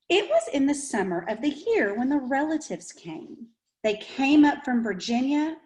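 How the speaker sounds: gentle storybook read-aloud; reading to children. A narrator's reading. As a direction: tell it like a picture book to kids. Reads the picture book aloud.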